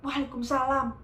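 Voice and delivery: answering greeting. Retold or imitated. Reply to the greeting.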